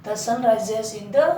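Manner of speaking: very slow example sentence; slow classroom example; slow dictation. Shown as a demonstration. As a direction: read the example word by word. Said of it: "the.".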